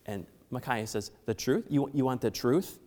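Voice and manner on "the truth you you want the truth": dry, mocking question; sarcastic. Micaiah mocking King Ahab, sarcastic. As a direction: scoff as if the truth were a joke. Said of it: "he said it really sarcastically".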